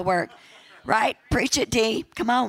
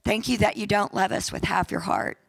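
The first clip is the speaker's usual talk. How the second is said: prayer. Acted. Pastor prays aloud.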